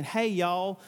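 lightly voiced Southern accent; a hint of a Southern drawl in the greeting. Southern Levite greets the northerners, light Southern accent. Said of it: "That's a different accent".

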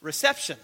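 reception stressed on its middle syllable; emphasis on reception. Real, not acted. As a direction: lean on the word reception. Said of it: "I emphasize the word reception".

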